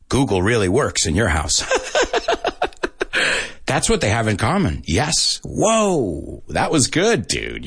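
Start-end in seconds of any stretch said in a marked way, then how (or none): 5.4-7.7 wow the student; real delight; impressed. Real, not acted. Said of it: "praising winner".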